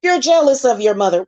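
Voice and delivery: high, sneering mock of the accusers; mocking the haters. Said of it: "Now it's".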